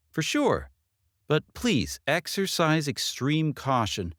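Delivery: lightly voiced detective, grave warning. Detective warning Katie the killers will return, lightly voiced. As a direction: warn her to be careful.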